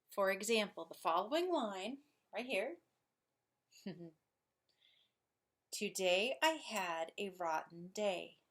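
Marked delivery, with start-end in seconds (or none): 5.7-8.4 Today I had a rotten day, weight on every second syllable; lilting beat on DAY, HAD, ROT, DAY; iambic stress. Shown as a demonstration. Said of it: "Notice unstressed first".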